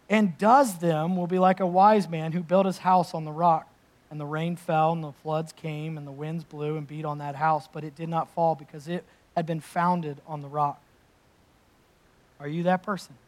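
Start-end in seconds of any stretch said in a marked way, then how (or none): 0.1-10.8 scripture reading. Acted. Rereads the Scripture passage.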